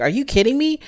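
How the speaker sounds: imitated disbelief, high-pitched with a rising end; flabbergasted. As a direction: pitch it up like a stunned reaction. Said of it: "she's flabbergasted".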